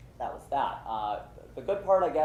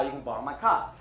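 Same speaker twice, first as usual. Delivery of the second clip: put-on Italian accent; 3 semitones higher than usual. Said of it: "that's as good as my Italian accent gets".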